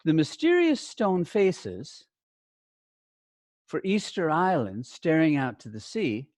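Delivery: steady textbook reading; reading aloud. Shown as a demonstration. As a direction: clear read-aloud demo. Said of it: "Let me show you on the A page".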